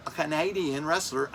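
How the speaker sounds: badly faked Canadian accent; mock Canadian accent. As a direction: try a Canadian accent on CANADIAN, widening its second vowel. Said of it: "That's not a Canadian accent".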